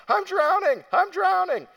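put-on high, loud, panicked screaming as a little boy; panicked child scream. Boy in pool screaming to his foster dad, high panicked shriek. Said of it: "he starts screaming at the top of his lungs".

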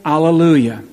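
loud ringing alleluias; joyful cry. Acted. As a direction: call it out like a cry at the grave. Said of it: "we make our cry".

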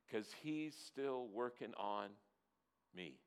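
put-on recited children's church song, unsung; spoken song lyrics. Shown as a demonstration. Preacher recalling a childhood church song, spoken lyrics. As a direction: speak the verse in rhythm without singing. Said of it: "I'll try not to sing it".

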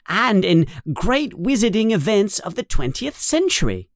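high, eager know-it-all schoolgirl; bossy girl showing off her reading; Hermione Granger. A narrator's reading.

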